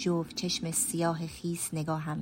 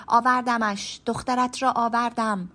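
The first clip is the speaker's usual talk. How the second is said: calling out loud and high, triumphant; 6 semitones higher, 8 dB louder than usual. A narrator's reading. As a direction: shout it across the room so grandmother hears. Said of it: "با صدای بلند گفتم". (فریاد بلند و زیر با شوق)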